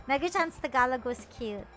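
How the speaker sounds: ordinary talk, nothing marked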